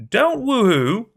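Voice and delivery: loud, slow, high panicked plea; tearful cry. Acted. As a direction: cry it back through tears. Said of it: "I cried back, hoarse, tears falling".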